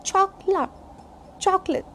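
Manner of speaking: chocolate as CHOK-lut, weak last vowel; unstressed ending. Shown as a demonstration. Teacher drilling chocolate for learners, CHOK-lut. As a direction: leave the end of chocolate unstressed. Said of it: "We don't put stress on a".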